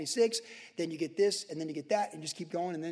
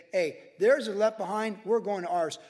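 calling out a little louder, announcing it; mock call out; 2 semitones higher, 5 dB louder than usual. Preacher to church, a rallying call out. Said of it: "So I'm gonna say".

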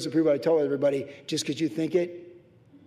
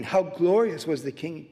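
lightly mocking, drawn-out quote; mock him with slow, stretched words; slower than usual. Pastor mimicking Michal jeering at David, mocking. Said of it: "She's mocking".

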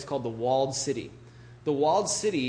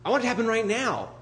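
impatient whine; 7 semitones higher, faster than usual. Retold or imitated. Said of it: "and it's like".

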